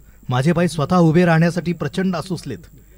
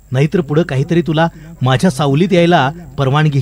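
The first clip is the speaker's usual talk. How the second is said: urgent plea; 2 semitones higher, 4 dB louder than usual. Acted. Old factory urging the child, loud and pleading. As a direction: press the child hard to wake up.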